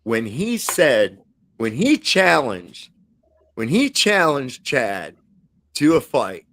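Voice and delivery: slow, deliberate delivery with pauses between phrases; slow emphatic build-up. Real, not acted. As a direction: draw out each phrase for dramatic effect. Dramatic build-up to an incredulous reaction.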